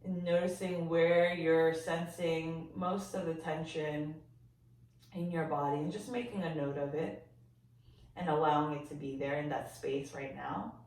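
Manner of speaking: gentle, softened body-scan voice with long pauses; guided meditation. Real, not acted. Yoga teacher guiding listeners to sense their body, calm meditation voice. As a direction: ease them into noticing, leaving silence between phrases.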